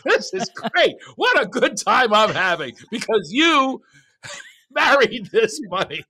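high, loud, drawn-out fake glee; hammed-up phony enjoyment, breaking into laughs; sarcastic delight. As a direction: gush slowly with mock rapture.

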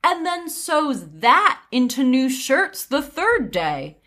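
sweetly overdone sincerity; disguised sarcasm. Acted. Widow deceiving the nosy prince, veiled sarcasm. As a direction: feign polite praise with lilting stresses. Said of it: "with well-disguised sarcasm".

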